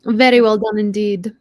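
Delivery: talking through a mouthful; eating cereal. Real, not acted. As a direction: mouth full. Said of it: "I'm eating cereal".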